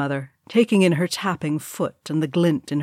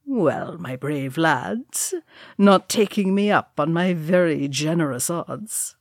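a hint of a cocky dwarf gambler, drawing out the address; understated dwarf banter; lightly voiced teasing dwarf; slower than usual. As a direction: lightly goad your drinking mates into a bet. Norrie goads his drinking companions.

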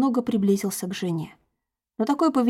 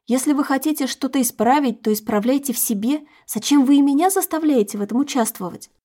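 indignant protest; 4 semitones higher, 4 dB louder than usual. Acted. Wife protests to husband.

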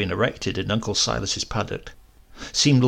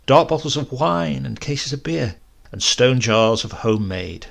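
plain reading voice

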